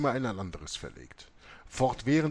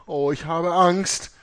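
shrieking in terror, much higher and louder; dying mother screaming in panic; panicked scream; 12 semitones higher, 12 dB louder than usual. A narrator's reading. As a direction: scream as if the figures are in the room. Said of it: "wurde von Panik ergriffen und schrie".

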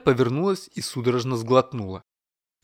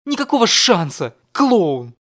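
high, loud indignant snap; angry retort; 5 semitones higher, 6 dB louder, slower than usual. Acted. Yulia furiously refusing her teasing husband, loud and high. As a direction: hurl the insult at him.

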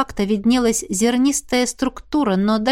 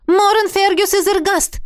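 loud, high summons of the full name; mock-commanding call, louder; 10 semitones higher, 4 dB louder than usual. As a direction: call him as if across a hall. Calling the dead man's name.

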